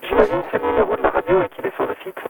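glitchy robotic phone line; distorted digital phone voice. Real, not acted. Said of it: "tu as une voix de robot".

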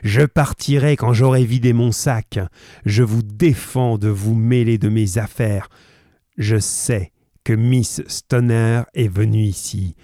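plus fort, menace qui monte; menace grondante. Acted. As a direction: terrorise ses hôtes avant la démonstration. Roylott menaçant, crescendo. (menace de plus en plus forte)

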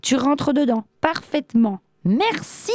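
high-pitched, triumphant taunt; gleeful mockery. A narrator's reading. Fisherman teases the trapped genie, amused. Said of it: "dit-il en riant".

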